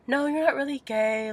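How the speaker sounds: high-pitched mocking mom voice; mock the dismissal up high; imitated dismissive mom. Mom dismissing child's coming out, imitated dismissive mom.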